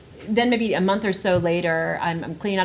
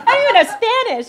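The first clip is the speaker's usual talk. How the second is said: laughing through it; 9 semitones higher, 12 dB louder than usual. Real, not acted. Laughing at the absurd advice.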